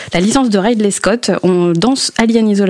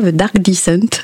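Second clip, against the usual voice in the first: English accent. Shown as a demonstration. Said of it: "si je le fais avec mon accent anglais".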